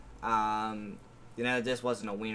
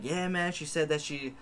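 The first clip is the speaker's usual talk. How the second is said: put-on New York accent; 5 semitones higher, 6 dB louder than usual. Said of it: "a thick New York accent".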